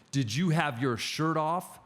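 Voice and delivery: mock-aggressive caller. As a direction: spell out the accusation slowly, imitating an interrogator. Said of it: "got this aggressive tone to him".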